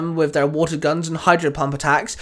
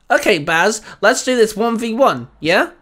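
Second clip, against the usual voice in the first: put-on eager young trainer; 6 semitones higher, 4 dB louder than usual. A narrator's reading. Young trainer Sam voiced.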